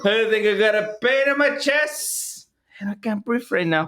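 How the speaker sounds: put-on joking Spanish-accented English; Hispanic accent. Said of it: "Why do you sound Hispanic".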